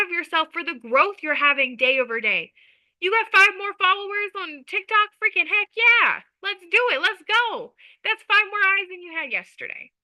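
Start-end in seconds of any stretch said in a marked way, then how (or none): 3.0-9.9 high, hyped-up cheer for a small win; mock celebration. Coach cheering a viewer's five new followers, hyped. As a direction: cheer like it's a big deal.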